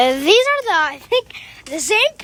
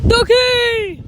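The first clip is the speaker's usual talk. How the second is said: excited high coo; 7 semitones higher, 6 dB louder than usual. Real, not acted. Cooing at ducks in park.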